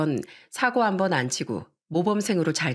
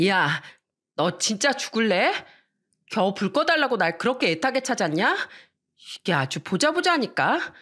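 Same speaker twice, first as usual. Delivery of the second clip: higher, exasperated scolding; mock angry sister; 4 semitones higher than usual. Sister snapping at brother who called her just to switch off the light, higher and irritated. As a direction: tell the lazy brother off, fed up. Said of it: "저는 너무 화가 나서".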